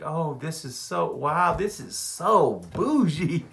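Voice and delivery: slow, dreamy, drawn-out wonder on bougie; the wife swooning over a fancy building; lightly voiced dazzled wife; wife's voice. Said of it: "She's like".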